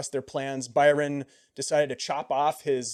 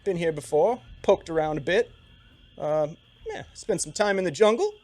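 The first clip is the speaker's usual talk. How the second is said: higher, louder Siluese guide voice; Siluese accent; 4 semitones higher, 5 dB louder than usual. Acted. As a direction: chat easily as the Siluese guide. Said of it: "Siluese accent".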